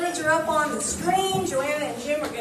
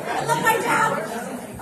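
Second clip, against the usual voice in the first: slower, savoring each word of I love my job; slow heartfelt repeat; 2 semitones higher, slower than usual. Real, not acted. Minister glowing after the song, slowly savoring it. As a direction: let the second I love my job stretch out fondly. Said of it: "repeats the phrase after dancing".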